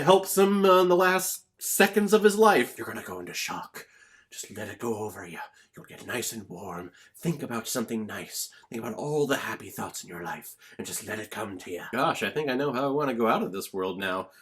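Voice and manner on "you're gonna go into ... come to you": soft, calm and reassuring; much softer, gently soothing a dying man. Retold or imitated.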